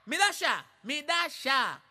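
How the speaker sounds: demanding shout. Acted. Angolan demands tea after slap.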